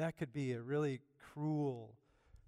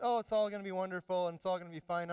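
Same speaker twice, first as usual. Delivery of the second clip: mock cheerful; 3 semitones higher, 3 dB louder, faster than usual. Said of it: "Not just".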